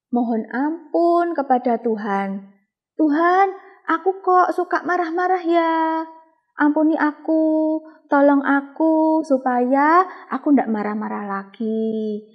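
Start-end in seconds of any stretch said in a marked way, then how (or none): 3.0-12.2 put-on higher, pleading little-child voice; child's prayer. Teacher voicing a child praying to God to stop getting angry, higher and pleading. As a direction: pray like a small child asking God for help. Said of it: "kita bisa berdoa".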